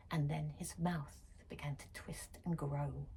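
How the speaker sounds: spooky whisper; eerie whisper. A narrator's reading. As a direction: hush it like a secret horror. Horror climax, hushed.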